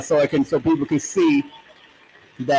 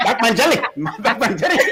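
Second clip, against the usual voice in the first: higher, laughing attempt at an Indian accent; jokey Indian-accented name, pitched up; 7 semitones higher than usual. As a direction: put on a playful Indian accent, barely holding back laughter. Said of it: "say it with the Indian accent".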